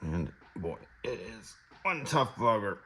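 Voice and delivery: straining while pushing hard; words squeezed out with effort; effort grunt. Real, not acted. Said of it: "Sorry for the grunting".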